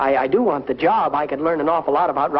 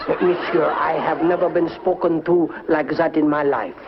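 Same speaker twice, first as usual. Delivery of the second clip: bad French accent. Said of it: "with a very bad French accent".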